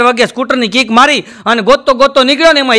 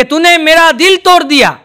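filmy hero line; 4 semitones higher than usual. Acted. Hero's filmy dialogue acted.

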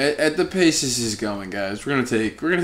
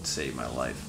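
imitating mom; 10 semitones lower, 14 dB quieter than usual. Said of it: "my mom would just be like".

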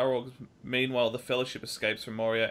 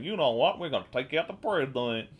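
hammed-up Southern twang, a touch louder at the start; bad Southern accent; 4 dB louder than usual. Podcaster mimicking random people from the south, bad Southern accent. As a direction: put on a clumsy Southern accent. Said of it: "that was a horrible accent".

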